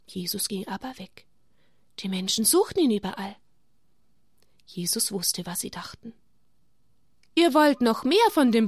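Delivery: put-on gentle storytelling for children; story narration. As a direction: tell it like a bedtime Bible story. Reading Bible story to children.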